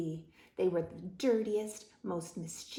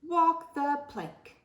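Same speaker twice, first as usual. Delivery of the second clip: pirate bellow; 9 semitones higher than usual. A narrator's reading. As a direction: pass sentence like a pirate captain. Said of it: "shouted Pete".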